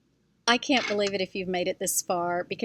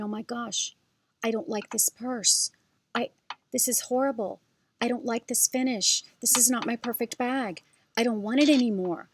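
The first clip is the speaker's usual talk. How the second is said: higher, mock-panicked rush; retold panic; 4 semitones higher than usual. To her husband in Macy's, a higher mock panic. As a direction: replay the store meltdown, pitched up. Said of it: "And I'm, like, panicking".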